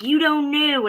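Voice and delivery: high mocking voice of the doubters. Quoting people who say she doesn't know, high and mocking. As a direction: mimic the people who dismiss her. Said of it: "So they're like".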